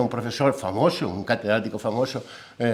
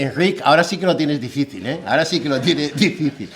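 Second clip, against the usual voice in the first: teasing laugh. Retold or imitated. Teasing his friend in anecdote.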